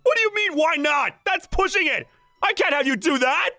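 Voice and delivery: high, incredulous objection; flustered protest. Acted. Fan refusing idol's back wash, flustered.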